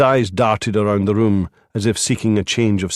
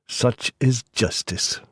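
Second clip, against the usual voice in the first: sighing; 4 dB quieter, slower than usual. A narrator's reading. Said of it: "the lawyer said with a sigh".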